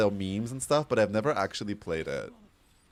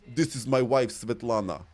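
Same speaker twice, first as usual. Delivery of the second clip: put-on Polish accent; Slavic accent. Shown as a demonstration. Streamer demonstrating a Polish accent for viewers, Slavic accent. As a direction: introduce the wife in a Slavic accent. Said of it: "my voice instantly goes deeper".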